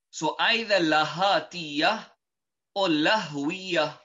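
Lahatiya said slowly, every syllable clear; term Lahatiya. Shown as a demonstration. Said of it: "are known as".

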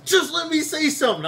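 high-pitched mocking imitation; mock protest. Co-host re-enacts the interruption, high mock protest. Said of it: "and then you was like".

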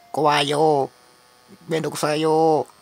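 whiny, scared little voice; pathetic whining. Acted. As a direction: whimper like a coward who wants to go home. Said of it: "非常に情けない声で".

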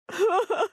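short, high sobbing breath; grieving little cry for a lost child; acted sob. Acted grief over missing child.

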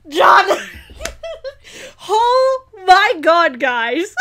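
a loud call that bursts into laughter; happy disbelief at the screen; laughing praise. Real, not acted. Fan laughing as she calls out the writer. Cheering the writer's great episode.

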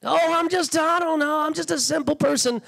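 falsely humble, self-effacing whine; mock false humility. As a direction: play small and helpless to dodge prayer. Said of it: "your little false, humble heart".

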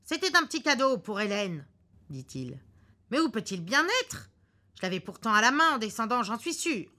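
puzzled and fussing; husband hunting for the gift, flustered. Acted. Husband searching his pockets.

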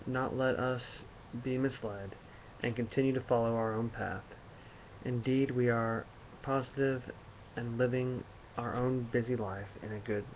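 slow, halting read-aloud of a poem; measured recital with stumbles and long gaps; poetry reading. Acted. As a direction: read the written lines slowly, pausing between phrases. Reads a written poem aloud.

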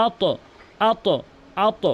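আত with an upward bounce on the ত; আত with a bouncing echo on ত; qalqala bounce. Shown as a demonstration. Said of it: "উপরের দিকে ধাক্কা হয়েছে".

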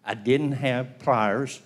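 slow, sheepish drawn-out reply; slow mock-sheepish confession. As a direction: drag it out like a guilty kid. Mikey's sheepish reply retold.

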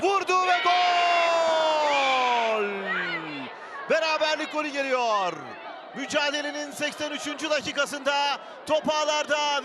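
screaming football commentator. Real, not acted. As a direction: scream the goal, stretching it out. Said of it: "earlier reader: screaming commentator".

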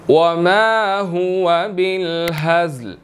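slow recitation. Shown as a demonstration. Begins reciting next verse.

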